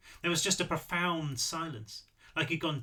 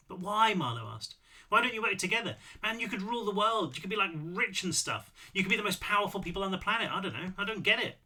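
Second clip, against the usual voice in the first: put-on a lightly higher, eager young man pushing back; young Marlowe, baffled; 5 semitones higher than usual. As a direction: ask it like a puzzled kid who wants the money.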